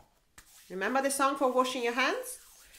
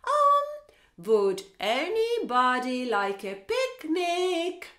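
shy picnic invitation; 5 semitones higher, 5 dB louder, much slower than usual. Acted. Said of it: "He goes like".

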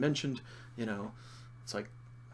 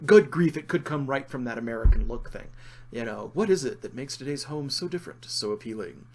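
hammed-up vintage newsreel announcer; 1950s broadcaster voice; 5 dB louder than usual. Shown as a demonstration. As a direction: read it like an old TV ad. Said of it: "There's my nineteen fifties broadcaster voice there for you".

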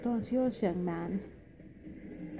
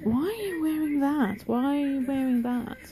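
imitating curious fans; 5 semitones higher than usual. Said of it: "every one of you is wondering".

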